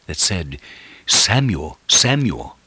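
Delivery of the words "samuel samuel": raised, higher calling voice; God's audible call. Retold or imitated. God calling young Samuel in bed, calling out. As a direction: call the boy's name out, falling at each end. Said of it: "he heard a voice audibly".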